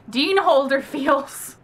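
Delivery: slow, drawn-out gush; mildly hammed-up fangirl reaction; fangirl swoon. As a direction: stretch it out like a swooning fan. Acts out her gushing reaction.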